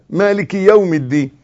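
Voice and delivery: مالك read maliki with a single short i; one-beat kasra. Shown as a demonstration. Teacher repeating the correct verse, مالك with one short i. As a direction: link مالك to يوم through a brief i. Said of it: "حركة واحدة".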